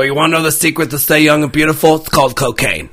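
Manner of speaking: lisping Carl voice; slurred, lisping cartoon slob. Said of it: "You add a little lisp to it".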